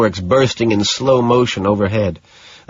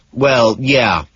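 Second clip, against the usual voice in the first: a cool, offhand "yeah" that falls away; considerably detached; 3 semitones higher than usual. Acted. Man brushing off the woman's midnight invitation, detached. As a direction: shrug it off, not really present. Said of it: "considerably detached".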